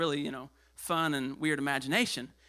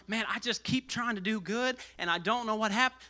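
frustrated believer; 4 semitones higher than usual. Retold or imitated. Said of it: "you're feeling".

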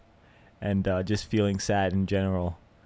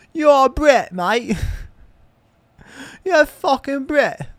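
very high, loud hammed-up British accent; mock British accent; 6 dB louder than usual. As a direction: squeal it like a cartoon Brit. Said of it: "I'm just doing a British accent now".

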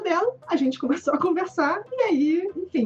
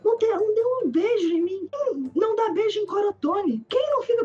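indignant; 5 semitones higher than usual. Retold or imitated. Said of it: "Eu comecei a falar assim".

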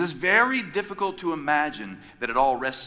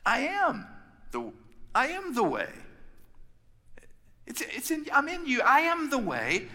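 gentle Jesus; 11 semitones higher than usual. Retold or imitated. Jesus voiced in retold scene.

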